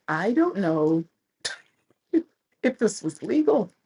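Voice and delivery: giggly high worry; laughing nervously. Retold or imitated.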